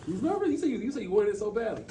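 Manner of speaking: high, teasing, incredulous; teasing disbelief. Real, not acted. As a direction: tease him with mock disbelief. Teasing a nervous colleague.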